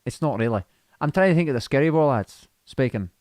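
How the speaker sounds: tentative Scottish accent; attempted Scottish accent. Shown as a demonstration. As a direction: try on a Scottish accent, unsure of it. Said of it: "can you do Scottish?".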